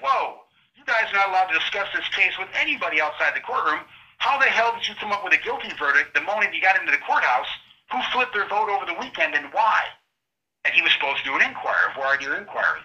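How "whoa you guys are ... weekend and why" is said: stern judge. Retold or imitated. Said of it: "The judge should have been like".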